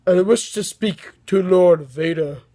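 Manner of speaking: slow, lightly voiced sinister emperor; a half-hearted try at a menacing ruler; a hint of a slow dark lord, self-consciously imitated; attempted Emperor voice. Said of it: "I can't do the Emperor voice".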